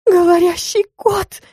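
high, slow shocked cry. A narrator's reading. Client sees the cat talk, shocked high cry. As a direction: gasp it out in disbelief.

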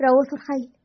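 put-on mildly gleeful child's answer; happy. A narrator's reading. Boy cheerfully naming the smell, lightly happy. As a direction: blurt it out with a touch of delight. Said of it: "ناجي بسعادة".

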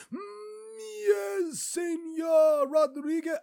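a haughty aristocrat answering his friend; posh snob voice. Retold or imitated. Senor Bitterman replying to his fellow snob, hammed-up posh voice. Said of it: "Senor Bitterman goes".

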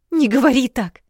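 a princess nearly losing her temper; high sharp girlish protest; almost angry girl. A narrator's reading. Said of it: "почти разозлилась княжна".

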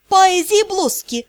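выше и медленно, с показным восторгом; провозгласить тост, смакуя слова; наигранный восторг. Acted. (показной восторг)

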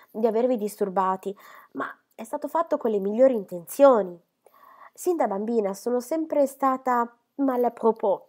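high, loud, slowed apology; all in a fluster, sorry to have intruded; flustered Miss Phoebe. Acted. Miss Phoebe apologising to Osborne, high loud fluster. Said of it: "tutta agitata".

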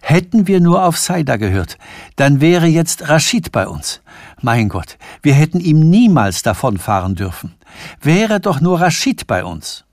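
panicked wish for rescue; frightened stammer. Acted. Preising to Sanford, afraid of being kidnapped, frightened. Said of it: "stammelte Preising".

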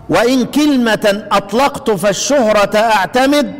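slow, measured reading of didactic verse; verse recitation. Shown as a demonstration. Teacher reading the poem's lines to students, slow verse recitation. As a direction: recite the couplet slowly, drawing out the long vowels. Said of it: "قراءة الأبيات عشان اللي يحب يقرأها".

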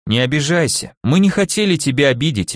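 gentle. Acted. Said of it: "мягко начал он".

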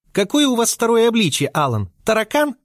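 sassy high taunt; cheeky taunt. A narrator's reading. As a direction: needle him with a sneer. Insolent girl mocking captor.

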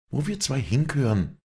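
grim answer, pitched high; dull, ominous answer. A narrator's reading. Walli drags Vinzenz to the abyss, grimly ominous. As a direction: answer with dark finality, drawing it out. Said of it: "war die dumpfe Antwort".

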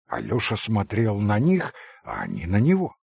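ordinary delivery

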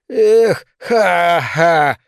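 high shriek breaking into a mad cackle; yelp, then laugh wildly. Acted. Neil out of control, shrieking and laughing. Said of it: "визжал он".

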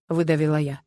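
usual speaking voice

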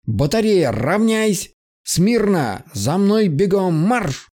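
barked drill commands, a touch high; shouting orders. Acted. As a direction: call the platoon to attention like a drill lieutenant. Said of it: "выкрикивать свои лозунги".

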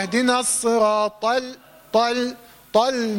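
slow recitation, heavy ط moving to light ل in طل; ta into lam. Shown as a demonstration. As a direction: recite طل slowly, thinning out onto the lam. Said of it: "دخول طاء على اللام".

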